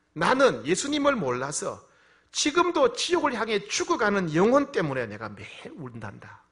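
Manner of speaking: impassioned divine lament, voice swelling; voice of God. Retold or imitated. God tells the pastor He weeps for lost souls, impassioned. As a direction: speak as God grieving, building to a high, loud close. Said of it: "이렇게 하나님 말씀하십니다".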